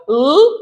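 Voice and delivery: "L" as a long held lll; letter sound L. Shown as a demonstration. Teacher recapping L and R, held lll. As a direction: hold the tongue-tip sound for "L". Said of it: "L, R. Então".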